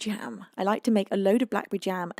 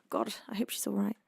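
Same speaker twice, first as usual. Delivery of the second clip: worried whisper; 6 dB quieter than usual. Real, not acted. Worried for a friend.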